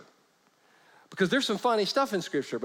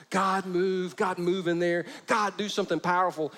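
praying church people; 2 semitones higher than usual. Retold or imitated. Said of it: "just like church people".

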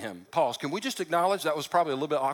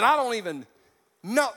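cursing denial; 4 semitones higher than usual. Retold or imitated. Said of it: "Peter started cussing".

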